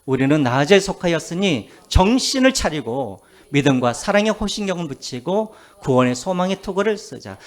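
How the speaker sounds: firm, projected Bible recitation; scripture reading. Acted. Preacher leading everyone in the verse, firmly recited. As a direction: read it out to lead a congregation.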